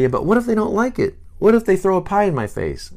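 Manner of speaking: high, fast, fretting objection; anxious what-ifs tumbling out; a touch of mock nervous whining; worried six. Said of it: "And the six might say".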